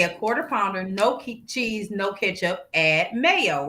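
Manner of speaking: slow, deliberate order, each item set apart; spelled-out order. Retold or imitated. Retelling her burger order to the co-host, slow and deliberate. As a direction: lay out every item slowly so they can't miss it. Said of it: "No, listen".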